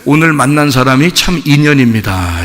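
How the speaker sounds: mild, low monk voice; lightly voiced serene Buddhist monk; praying monk. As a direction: calmly intone it like a monk at prayer. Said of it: "그 스님은 절에 가서 어떻게 그 불공을 드리냐면".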